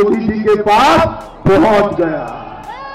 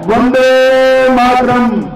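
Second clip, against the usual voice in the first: slow, drawn-out slogan, louder; rally slogan; 2 semitones higher, 4 dB louder, much slower than usual. Real, not acted. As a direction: call it out for the crowd to echo. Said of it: "प्रचंड आवाज के साथ बोलिए".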